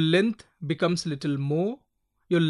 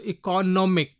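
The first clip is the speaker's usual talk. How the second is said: "economic" with nom emphasized; stress on nom. Shown as a demonstration. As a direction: demonstrate "economic", leaning on the third syllable. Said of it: "N O M is given more stress".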